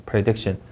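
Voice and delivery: PREDICTION with a plain R; PREDICTION, light R after P; R sound. Shown as a demonstration. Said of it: "받침 없는 리을".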